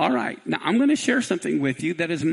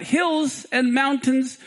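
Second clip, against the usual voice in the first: crying out; 5 semitones higher, much slower than usual. Acted. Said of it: "he cried out".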